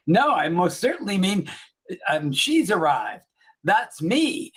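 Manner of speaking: hammy, deliberate seventies TV delivery; bad seventies acting. Retelling a female doctor correcting a man, stilted bad acting. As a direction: imitate bad acting, drawing out the key words. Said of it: "really bad acting from the seventies".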